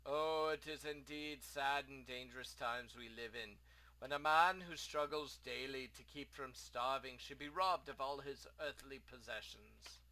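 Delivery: lightly voiced theatrical lament; a hint of woeful old-world merchant; lamenting ruined merchant. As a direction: bemoan your fate with formal grandeur. Plays Abdullah lamenting.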